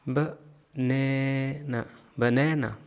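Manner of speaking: बनाना with the middle a long and stressed; teacher models stress. Shown as a demonstration. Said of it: "middle वाला ए पे ज़्यादा stress".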